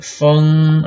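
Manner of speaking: 风 held long on a high, level pitch; first tone. Shown as a demonstration. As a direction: draw out 风 high and steady. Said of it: "right, first tone".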